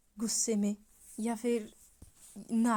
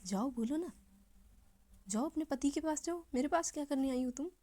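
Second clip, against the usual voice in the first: angry confrontation. Acted. Angry fiancée confronting the rival who came with food, heated. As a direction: fling the blame at her. Shefali confronts Miss Kapoor angrily.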